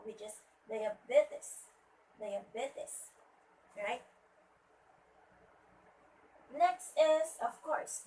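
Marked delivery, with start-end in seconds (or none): 0.7-3.1 "diabetes" as dai-a-BE-tes, slowly; stress on third syllable. Shown as a demonstration. Teacher showing the stressed syllable, "diabetes" said carefully with BE stressed. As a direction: lean on BE in "diabetes". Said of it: "should be at the third syllable".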